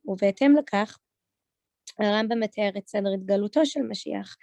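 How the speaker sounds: Israeli Hebrew pronunciation; Israeli accent. Shown as a demonstration. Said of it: "doing it in an Israeli accent".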